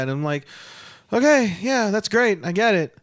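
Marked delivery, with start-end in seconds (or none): 1.1-3.0 loud, raised, fed-up mock approval; exasperated acknowledgement. Fan fed up with wrestler's Mean Girls gimmick, exasperated. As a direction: act out being sick of hearing it.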